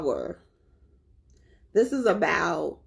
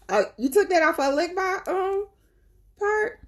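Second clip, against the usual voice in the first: mock disbelief; 13 semitones higher than usual. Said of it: "I said".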